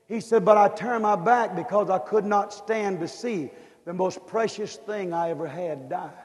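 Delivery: hushed voice of God; God answering gently. Acted. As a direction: answer like a grieving father. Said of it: "the answer came back".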